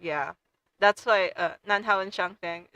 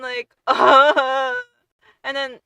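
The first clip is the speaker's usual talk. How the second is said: laughing; 4 semitones higher, 8 dB louder, much slower than usual. Real, not acted. Laughing while recalling crying.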